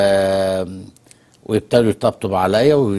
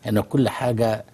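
softer, hushed delivery; quiet voice; 6 dB quieter than usual. Shown as a demonstration. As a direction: drop the volume to show calm talk. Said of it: "بصوت هادي".

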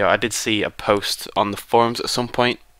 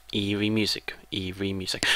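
hushed, spooky whispered caption; eerie whisper; 7 dB quieter than usual. Acted. Player reading out the eerie music cue, spooky whisper. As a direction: whisper it like creepy background music.

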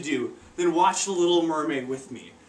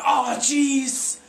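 panicked worry; 5 semitones higher than usual. Retold or imitated. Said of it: "Mid thought".

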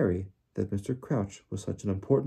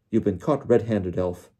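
a touch louder, accusing; mildly roaring accusation; roared; 5 dB louder than usual. Acted. Diggory accusing the elf, mild roar. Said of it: "Mister Diggory roared".

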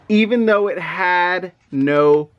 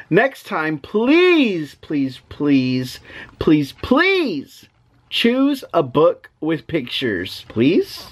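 mock begging; much slower than usual. Dad begs for a picture book.

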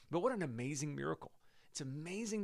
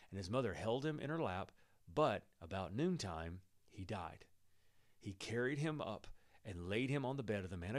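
scripture reading. Acted. Pastor reading scripture to church, calm and measured. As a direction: read the story steadily to the congregation. Reads the Bible story aloud.

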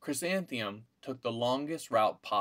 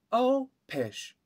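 mother waving it away, high and loud; high dismissive mother; 13 semitones higher, 5 dB louder than usual. A narrator's reading. Mother dismissing daughter's worry, high and loud. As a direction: brush it off as mother. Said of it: "said her mother".

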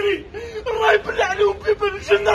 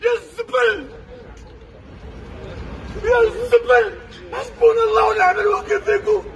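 sobbing furious shouts; angry crying. Real, not acted. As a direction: yell your grief and rage. Man burying parents, ranting abroad.

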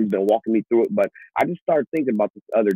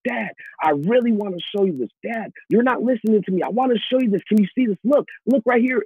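put-on high, pleading child's voice, pitched way up; whiny little boy; 11 semitones higher than usual. A preacher voicing his five-year-old son begging for attention. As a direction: beg like a five-year-old tugging at dad.

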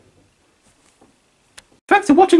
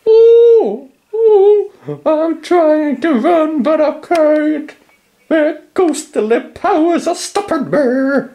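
mock panic; slower than usual. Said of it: "I'm really freaking out now".

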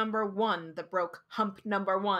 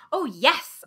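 prompt cry; 2 semitones higher, 6 dB louder than usual. Acted. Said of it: "I cried promptly".

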